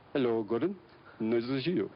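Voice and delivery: put-on a light Indian accent, friendly greeting. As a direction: lightly imitate a kind Indian man saying hello. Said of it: "I do it Indian".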